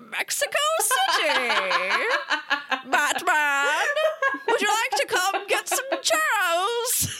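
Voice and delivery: a silly put-on Mexican accent; mock Mexican accent. Mocking Bane's accent for friends, hammed-up fake Mexican accent. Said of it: "this is a Mexican voice".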